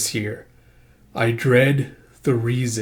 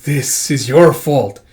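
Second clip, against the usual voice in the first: loud, slow, weighted blame; angry accusation; 5 dB louder, slower than usual. Acted. Trapped character blaming his companion, angry accusation. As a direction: lay the blame word by word. Heated quarrel in the story.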